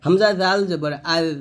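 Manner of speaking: "জাল" and "আল" light, tongue touching the upper teeth; thin dhal. Shown as a demonstration. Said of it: "পাতলা হবে, জিব্বাটা উপর দাঁতে লাগাবেন".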